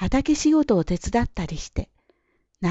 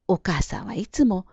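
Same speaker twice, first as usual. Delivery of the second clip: ordinary delivery, nothing marked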